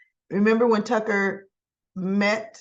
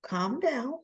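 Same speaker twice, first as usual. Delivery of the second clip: calling out; 6 semitones higher than usual. Pretend. Calling for calm at outburst.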